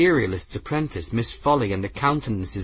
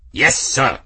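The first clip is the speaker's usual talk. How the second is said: crisp reply; 3 semitones higher, 4 dB louder than usual. Acted. Engineer answering at attention.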